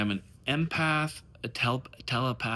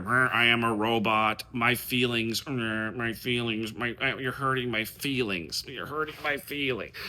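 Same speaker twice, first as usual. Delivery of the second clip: robot voice; 4 semitones lower than usual. Retold or imitated. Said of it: "go back to, like, where feelings don't matter".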